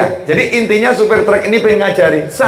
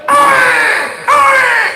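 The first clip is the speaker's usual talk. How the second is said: put-on baby's cry. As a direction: cry out like a newborn baby. Imitating a newborn crying. (tangisan bayi yang ditirukan)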